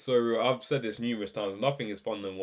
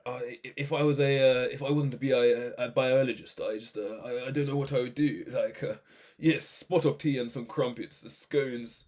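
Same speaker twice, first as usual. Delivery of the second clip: imitating an old-fashioned posh British accent; hesitant, stammering mock-posh British grandad; posh old British granddad. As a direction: put on a dated, proper British accent. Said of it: "He speaks like my granddad".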